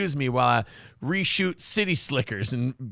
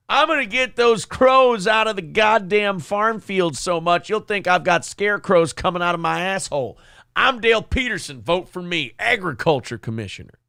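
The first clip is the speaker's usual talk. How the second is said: mock campaign ad. Continues Dale Peterson parody ad.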